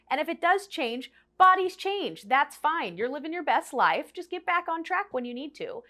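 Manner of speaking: high-pitched, easygoing self-talk; breezy reassurance. Acted. Reassuring herself that body changes are fine, breezy and high. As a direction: lift the voice to shrug it off.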